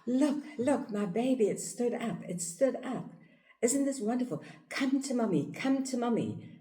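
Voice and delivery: high, thrilled mom voice coaxing; excited mother. Retold or imitated. Mother coaxing her standing baby to come to mommy, high and thrilled. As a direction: cheer the baby on to you.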